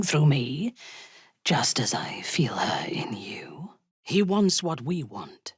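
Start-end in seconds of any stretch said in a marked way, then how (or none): 1.4-3.7 lower, soft unvoiced whisper. Sharing the Absolute's presence, whispered. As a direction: confide it in a hush.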